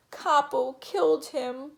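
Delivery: put-on high, loud childish wail. A narrator's reading. Little boy blaming the dog, high wail. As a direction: wail the accusation like a small kid. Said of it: "Dylan wailed".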